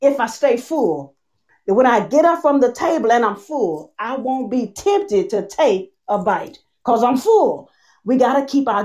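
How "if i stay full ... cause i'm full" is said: slowed, deliberate phrasing with spaced pauses; slow restatement. Shown as a demonstration. Preacher repeating for a crowd that missed it, slow. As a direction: say it slowly so they catch it. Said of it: "I'ma say it slow".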